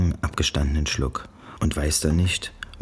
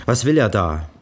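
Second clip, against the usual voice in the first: barsche Mutter; 5 semitones higher, 6 dB louder than usual. A narrator's reading. Mutter verhört Janice.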